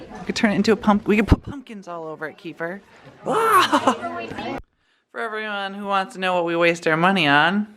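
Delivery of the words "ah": a high excited squeal of delight. Real, not acted. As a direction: let out a high burst of excitement. Excited about the decoration idea.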